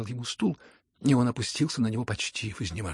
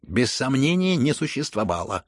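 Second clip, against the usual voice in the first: loud verdict, falling at the end; cutting reply; 2 semitones higher, 7 dB louder than usual. A narrator's reading. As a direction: cut the matter off firmly. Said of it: "отрезал Ганя".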